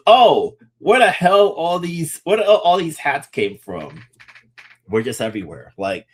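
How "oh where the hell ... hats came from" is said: high, louder cry of surprise; mock astonishment. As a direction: exclaim it high, as an astonished onlooker. Voices locals surprised by hats everywhere.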